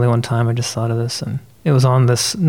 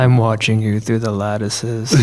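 mock creepy lover; slower than usual. Mock creepy scripture line.

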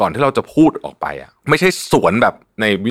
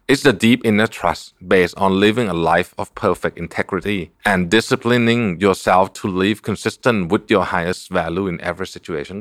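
slow quote reading; much slower than usual. Shown as a demonstration. Reads an English book quote.

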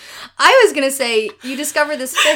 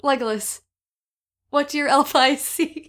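holding back laughter; 2 semitones higher than usual. Real, not acted. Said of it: "I can get through this".

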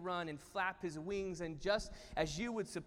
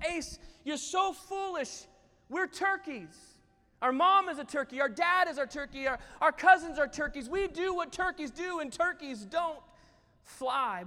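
high, loud, emphatic put-down; scornful brother; 7 semitones higher, 6 dB louder than usual. Acted. Jerome tells his brother they are only turkeys, scornfully. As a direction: lecture him as if it were obvious.

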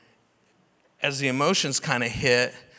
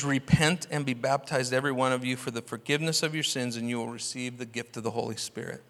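calm Peter; 3 semitones lower, 7 dB quieter than usual. Retold or imitated. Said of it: "Peter says".

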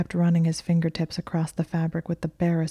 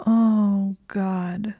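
a sharp high cry that collapses into a sob; quiet sob; 4 semitones higher than usual. A narrator's reading. Hermione, overwhelmed, sobs it out quietly. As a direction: cry out, then choke it back to a whisper. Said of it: "she sobbed quietly".

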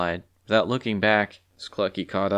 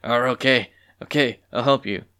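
trembling; 3 semitones higher, 4 dB louder than usual. A narrator's reading. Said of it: "trembled and stuttered".

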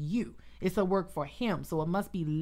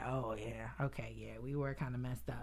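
sheepish admission; 6 semitones lower, 10 dB quieter than usual. Retold or imitated. Voicing people admitting their past was messy, in a soft sheepish tone. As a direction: lower and softer, a mock sheepish mumble.

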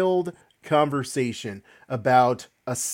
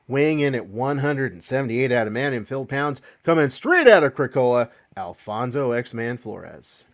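booming ring announcer intro; grand entrance announcement. Acted. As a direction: hype up the crowd like a boxing announcer. Hosts introduce the show.

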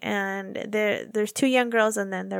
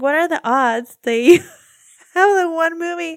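amazed; 5 semitones higher, 6 dB louder than usual. Retold or imitated. Retelling her amazement, laughing.

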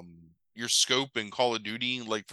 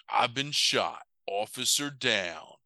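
slow; slower than usual. Retold or imitated. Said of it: "And then he's like".

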